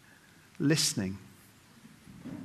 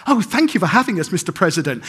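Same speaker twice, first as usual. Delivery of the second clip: oblivious gushing thanks; 2 semitones higher, 4 dB louder, faster than usual. Retold or imitated. Acted oblivious guest thanking the president.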